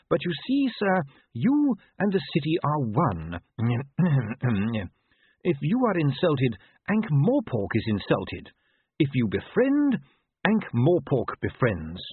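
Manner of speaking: a hint of a proper manservant instructing his master; patient butler. Butler lectures Vimes.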